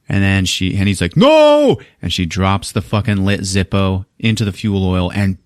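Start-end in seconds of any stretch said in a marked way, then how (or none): 1.2-1.8 high, loud, drawn-out "no"; acted despairing yell; retold cry of horror. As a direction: scream it high as disaster strikes. Retold Javier's final cry.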